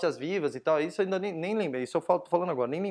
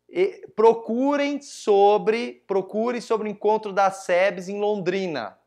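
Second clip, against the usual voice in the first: retold public appeal; 4 semitones higher, 5 dB louder, much slower than usual. Calling out to the audience, retold.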